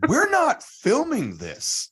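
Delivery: very slow, high and laughing; cracking up. Retold or imitated. Comedian breaking up laughing at volunteer, slow high. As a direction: laugh through the line, losing it. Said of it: "David Cross just goes".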